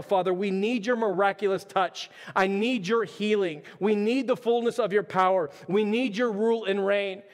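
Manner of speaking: a prayer that begs for revival; earnest pleading prayer. Acted. Pastor prays aloud before the church, earnest and pleading. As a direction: speak straight to God, pleading and earnest.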